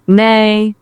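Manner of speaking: high, slow spoken neigh; drawn-out, badly faked horse neigh. AI imitates a horse on request, high neigh. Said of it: "A horse".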